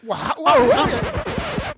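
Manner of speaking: high, laughing wows that climb; retold gasping amazement, half laughing; amazed whoa. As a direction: let the whoa rise up in disbelief. Reacting to the reveal.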